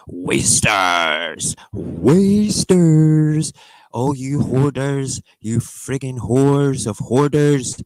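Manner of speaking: drawn-out wail rising high and loud; theatrical scolding. Real, not acted. Streamer berating food hoarders, drawn-out scolding. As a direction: stretch out the insult in a high, slow rant.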